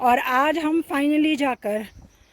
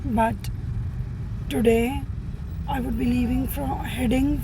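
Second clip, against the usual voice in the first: sore throat. Real, not acted. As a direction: speak gently, sore throat. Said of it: "having a very bad throat".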